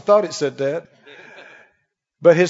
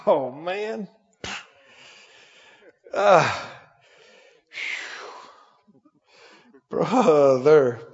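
mock groan; 5 semitones lower, 4 dB quieter, much slower than usual. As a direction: sigh it out like you hate mornings. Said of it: "they go".

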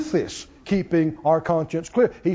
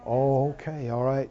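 hushed reply; 6 semitones lower, 6 dB quieter than usual. Retold or imitated. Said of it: "You go".

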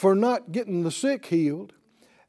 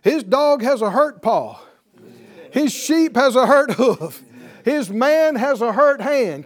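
louder preaching; 3 semitones higher, 5 dB louder than usual. Real, not acted. Preacher building to a climax.

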